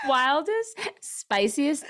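slow, with a numb stiff mouth; barely moving the lips, slowly; Botox-stiff mouth. Real, not acted. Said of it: "I can't move my mouth".

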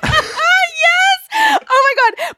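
high, loud excited yes; excited shriek. Real, not acted. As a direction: shriek it with delight. Excited recognition of the dog.

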